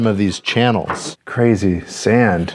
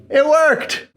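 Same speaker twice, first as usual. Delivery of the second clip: even higher, gleeful repeat; excited. Real, not acted. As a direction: cheer it again, more thrilled.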